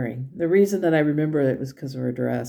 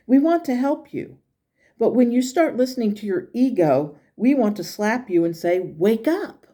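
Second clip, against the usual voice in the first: spirit guide Sunshine; 3 semitones higher than usual. Acted. Reads spirit guide's message.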